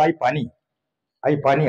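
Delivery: soft, worn-out plea for water; exhausted plea. Retold or imitated. Sweating boy begging his mother, weak tired plea. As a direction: beg weakly, drained from the heat. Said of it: "घामाघूम झाला".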